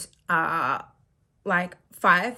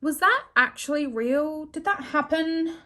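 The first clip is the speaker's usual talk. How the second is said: amazed disbelief; 6 semitones higher, 3 dB louder, slower than usual. Retold or imitated. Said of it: "and I was like".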